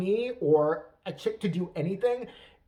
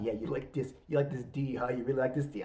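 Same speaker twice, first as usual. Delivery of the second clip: low, softened bedroom murmur; hammed-up pillow-talk voice; Armie Hammer; 6 semitones lower, 5 dB quieter than usual. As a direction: play a mock seducer, low and hushed. Acted bedroom talk, man's part.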